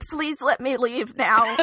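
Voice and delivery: slow, laughing plea; trapped with the crying sister; 1 pleading to escape. Retold or imitated. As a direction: beg to be let go. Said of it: "I was like".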